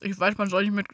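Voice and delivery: talking while chewing; words round a bite of cake; mouth full. Real, not acted. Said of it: "nicht mit Essen im Mund reden".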